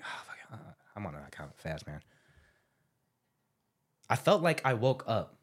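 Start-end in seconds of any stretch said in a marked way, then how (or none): 0.0-2.0 muttered to self. Retold or imitated. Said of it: "I was like".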